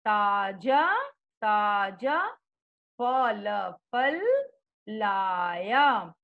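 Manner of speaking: put-on slow, syllable-by-syllable reading for children; spelling out letter by letter. Shown as a demonstration. Teacher sounding out words for young pupils, slow and deliberate. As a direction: sound out each letter, then blend the word slowly. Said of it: "बोल बोल करके पढ़ोगे".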